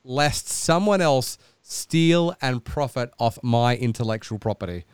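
lightly hammed-up grand self-importance; a hint of lofty arrogance, dragged out; mock pompous inner voice. Friend mocking his mate's grand copyright notice, pompous. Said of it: "were you thinking".

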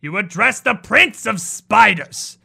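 loud, slow, hissing fury; hissing rebuke. Acted. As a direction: snap at them for the old name. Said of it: "a not quite gentle hiss".

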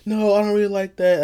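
high-pitched mock wife voice; imitated wife. Wife rejecting her husband's outfit, high mimicking voice. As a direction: put on a high, objecting wife. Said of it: "Here come his wife".

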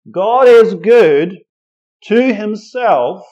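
loud preaching. Real, not acted. Preacher building to a climax.

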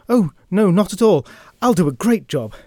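high, loud, eager sidekick yelp; desperate to please. Acted. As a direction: gush like a puppy begging to be useful. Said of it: "pathetically desperate to please".

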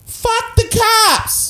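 put-on high, drawn-out drunken scream. Drunk woman heckling police in the background, screaming. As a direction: belt it out like a heckler from afar. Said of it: "Like, screaming".

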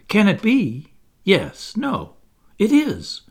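high, breathless-sounding storyteller's reveal; dramatic amazement. Acted. Wendy revealing the elegant lady, amazed. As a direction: build theatrical wonder in short bursts.

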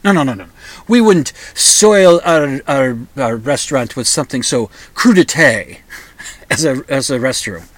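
lightly voiced snooty French maître d' refusing, French accent; outrageous French accent. Maître d' refuses the diner a restroom, mock French accent. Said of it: "outrageous French accent".

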